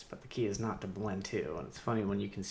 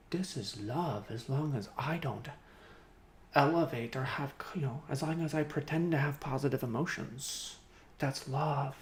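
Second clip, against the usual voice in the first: higher, mopey imitation; mock moping; 5 semitones higher than usual. Imitating people who mope around about love, mock moping. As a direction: whine it in a mocking singsong. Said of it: "People just wanna mope around and go".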